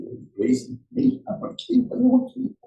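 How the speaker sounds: mimicking a tearful young woman; high whiny kid voice. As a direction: play the upset girl pleading. Girl's tearful complaint voiced.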